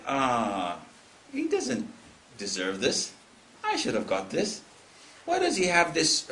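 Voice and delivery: acted begrudging complaint, swinging in pitch; envious grumbling. Envier eyeing another's car, begrudging grumble. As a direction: grumble with mock resentment. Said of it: "it's envy".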